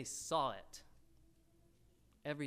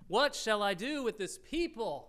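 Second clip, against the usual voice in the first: raised, exclaimed plea to God; crying out; 4 semitones higher, 3 dB louder than usual. Acted. Moses appeals to the Lord about the people, crying out. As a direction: read it as a pitched-up cry for help. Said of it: "Moses cried to the Lord".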